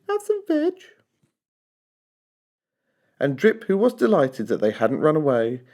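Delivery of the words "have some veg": high, hooting dinosaur chant; high cheerful duckbill hoot. A narrator's reading. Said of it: "they hooted".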